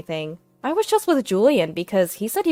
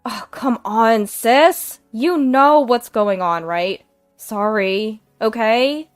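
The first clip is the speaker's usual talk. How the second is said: smiling; 5 dB louder than usual. Acted. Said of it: "Nina said with a smile".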